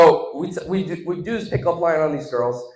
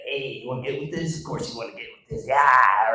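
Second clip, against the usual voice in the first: frat guy swagger; 3 semitones lower than usual. Retold or imitated. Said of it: "stereotypical frat guys".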